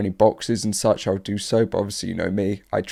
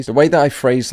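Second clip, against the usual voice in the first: voice crack; 4 semitones higher, 6 dB louder than usual. Real, not acted. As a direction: voice cracking upward. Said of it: "had a voice crack like me".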